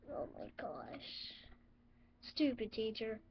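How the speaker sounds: unvoiced aside; whisper. Real, not acted. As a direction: breathe it out, no voice. Quiet aside.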